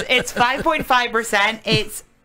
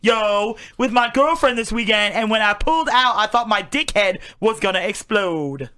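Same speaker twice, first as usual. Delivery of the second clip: bro voice. Pretend. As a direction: brag like a gym bro. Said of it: "Should I do it in a bro voice?".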